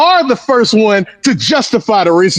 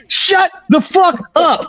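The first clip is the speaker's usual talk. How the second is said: slow, emphatic higher yell; fed-up order, slowed down and pitched up; angry; 8 semitones higher than usual. Real, not acted. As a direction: spit each word out in real disgust. Ranting at wrestler.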